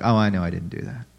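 quick, low-pitched shrug-off; casually dismissive. Acted. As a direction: brush off the accusation lightly, quickly. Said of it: "throw it off because it's not a big deal".

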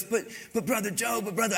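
put-on high, pleading stammer of a groggy kid; whiny sleepy teen. Sleepy teen pleading with his mentor, whiny. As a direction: plead like a half-asleep boy. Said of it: "He goes".

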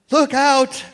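high, squeaky little yelp of "Look out"; a high startled squeak instead of a big shout; mouse voice. Retold or imitated. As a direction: squeak the warning in a tiny high panicked voice. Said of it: "what Seth called later a mouse voice".

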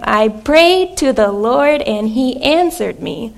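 slow, stressed prayed and answered; slow emphatic repeat. Shown as a demonstration. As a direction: lean on "prayed" and "answered", slowly. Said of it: "Let me say that one more time".

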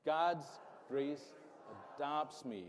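"God's grace adopts me" said firmly, each word set apart; mean every word of "God's grace adopts me"; with conviction. Shown as a demonstration. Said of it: "say it like you mean it".

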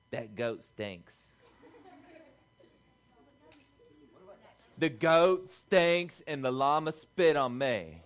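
lightly voiced complaining woman; grumbling wives on the ark. Noah's daughters-in-law griping on the ark, mock grumble. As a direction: grumble about the smelly animals. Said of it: "what those women were saying".

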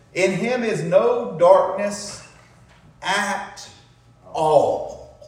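slow, with a pause before "at" and "all"; emphasis on at all. Shown as a demonstration. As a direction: lean on "at all" as an exclamation point. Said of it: "That's emphatic".

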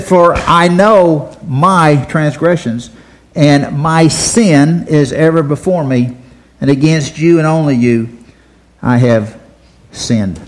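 very slow, solemn reading; slow reverent psalm reading; scripture reading. Acted. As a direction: let each phrase of the verse land. Reads verse three aloud.

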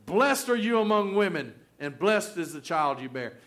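loud cry of blessing, falling away at the end; loud proclamation. Retold or imitated. Elizabeth greeting her pregnant cousin Mary, loudly proclaimed. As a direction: call out the blessing with force. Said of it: "in a loud voice".

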